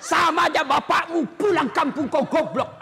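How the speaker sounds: mock cursing wife. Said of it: "tidak boleh maki-maki".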